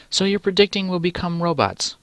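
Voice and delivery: high-pitched podcast interviewer; put-on high interviewer voice. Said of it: "the interviewer asks".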